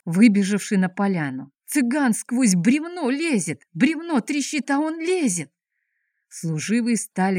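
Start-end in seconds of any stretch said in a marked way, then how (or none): 1.6-5.5 amazed cry. Acted. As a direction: squeal at the impossible sight. Guard shouting about a wonder. (изумлённый выкрик стражника)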